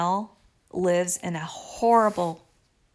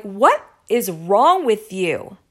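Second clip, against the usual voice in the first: slow, louder retold confrontation; straight-out challenge; 6 dB louder, slower than usual. Retelling how she confronted the other woman, straight-out challenge. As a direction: spell out the challenge slowly. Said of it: "I asked her straight out".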